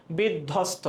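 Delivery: বিধ্বস্ত said with no b or w sound after the dh; silent ব-ফলা. Shown as a demonstration. Teacher showing students that ব-ফলা is silent in বিধ্বস্ত. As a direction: say বিধ্বস্ত, leaving the ব-ফলা unsounded. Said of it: "এখানে বয়ের কোনো উচ্চারণ নাই".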